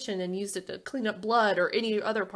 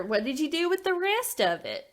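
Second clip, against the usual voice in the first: higher-pitched mimicked TV host demand; Nancy Grace; 7 semitones higher than usual. Co-host mimics TV host grilling about the concrete, high put-on voice. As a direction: press the question in a put-on host voice. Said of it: "You do the best Nancy Grace".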